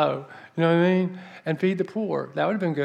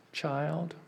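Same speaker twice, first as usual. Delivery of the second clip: soft, grave address; knowing elder; 7 dB quieter than usual. Retold or imitated. The older woman answers him, a soft knowing address. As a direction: say it quietly, like an elder about to correct. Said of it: "And she did this to me".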